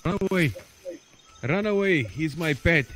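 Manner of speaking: mock warning in a put-on foreign accent; improvised Middle Eastern-ish accent. Game pirate warning a stranger off his pet snake, improvised foreign accent. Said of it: "I don't even know what accent that was supposed to be".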